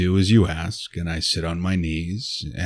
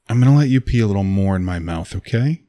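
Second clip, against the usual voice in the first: eager tease; 2 semitones higher, 7 dB louder, faster than usual. Acted. Teasing partner, bursting out eagerly.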